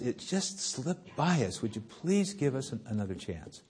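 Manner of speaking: soft, meek begging; a hint of students pleading. Students begging the professor for an extension, softly. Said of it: "And they begged him".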